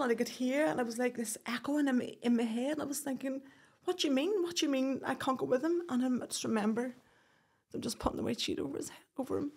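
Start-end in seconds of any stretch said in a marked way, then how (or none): 3.8-5.8 high, stunned disbelief on the first question; can't believe what she's hearing; disbelieving cry. Retold or imitated. Woman told she can't ride in the ambulance, crying out in disbelief.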